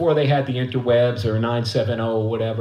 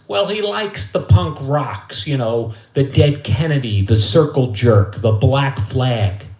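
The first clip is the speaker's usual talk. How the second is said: lightly voiced mother, drawn out; a hint of slow motherly explaining; 4 dB louder, slower than usual. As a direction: list the bands slowly as a clueless mom. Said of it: "And my mother goes".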